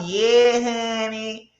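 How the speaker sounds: high-pitched country Mississippi drawl; teasing, exaggerated Mississippi-accent impression; Scotty. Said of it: "That's how Scotty be talking".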